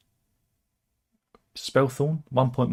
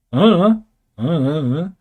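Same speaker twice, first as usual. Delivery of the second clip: high, loud wavering don't-know noise; mock a doubtful official with a high swooping mumble; unconvinced; 5 semitones higher, 8 dB louder, faster than usual. Defence minister asked if they will win, mock unconvinced. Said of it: "He doesn't seem convinced".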